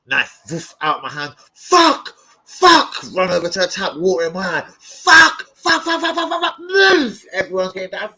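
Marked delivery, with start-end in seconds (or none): 1.5-3.0 high loud yelps of pain; pained swearing. Retold or imitated. Retelling cutting himself with knife. 4.8-7.2 high, loud frantic curses; panicked yelling. Retold or imitated. Retelling panic running to the tap.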